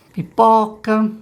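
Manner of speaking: each syllable drawn out; slow, stretched-out syllables; slow word reading. Shown as a demonstration. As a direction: read it slowly for a beginning reader. Reads out simple beginner words.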